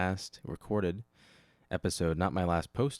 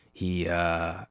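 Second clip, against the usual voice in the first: usual speaking voice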